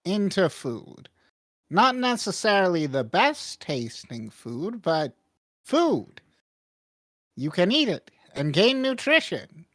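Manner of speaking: lightly voiced, lilting shopkeeper; shopkeeper character. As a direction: explain the item with swooping emphasis on key words. Shopkeeper explains the spoon to customer.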